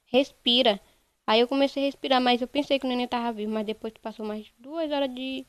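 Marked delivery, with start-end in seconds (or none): 0.0-0.8 mild imitation of a shouted command, first word highest and loudest; retold yelling. Nurse urging the mother to breathe, retold yelling. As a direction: imitate someone yelling orders, easing off with each repeat. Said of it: "começou a tá gritando".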